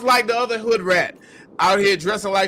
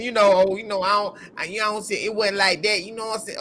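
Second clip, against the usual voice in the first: mock mumbling excuse; much faster than usual. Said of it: "all nigga-splaining about this".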